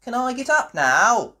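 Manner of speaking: high, loud pleading question; a bored patient begging to get up; eager little rabbit. Acted. Rabbit asking nurse to get up, high and pleading. Sick rabbit asks from bed.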